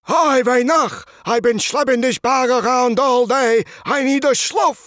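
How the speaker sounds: high, slow excited greeting. Acted.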